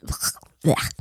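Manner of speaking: whispered gag of disgust; disgusted blech. Real, not acted. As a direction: gag at the word. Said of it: "but crusty is just".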